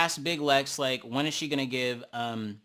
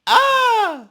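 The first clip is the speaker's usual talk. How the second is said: loud high squeal of laughter; delighted shriek; 14 dB louder than usual. Real, not acted. At the funny montage, a loud delighted squeal. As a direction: let out a shriek of glee.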